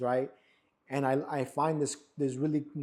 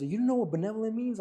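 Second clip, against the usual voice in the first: incredulous wife; 8 semitones higher than usual. Retold or imitated. Wife teases about the word.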